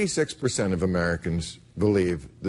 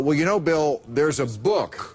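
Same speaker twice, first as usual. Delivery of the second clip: slow mock preachy "there's a book"; imitating Ken Ham; 4 semitones higher than usual. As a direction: drag out "there's a book" slowly, mocking. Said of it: "Ken Ham would say".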